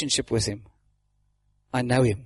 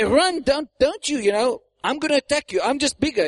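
threatening; 6 semitones higher than usual. Acted. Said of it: "Tries to threaten you".

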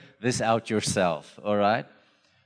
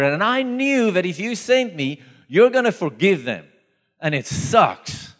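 higher-pitched, exasperated complaint to God; Giona arrabbiato; 5 semitones higher than usual. Acted. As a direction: act out an angry Jonah griping at God. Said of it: "He's, like, so angry".

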